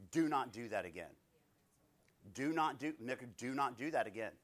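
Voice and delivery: firm, clipped rebuke at normal volume; stern warning. Acted. God correcting the preacher, stern and firm. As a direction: shut it down flat, no softness. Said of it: "It's a stern, quick".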